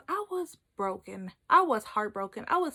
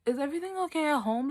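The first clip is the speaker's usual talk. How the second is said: higher, quick mock concern; concerned brain; 4 semitones higher, faster than usual. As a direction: check on them, puzzled. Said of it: "my brain was like".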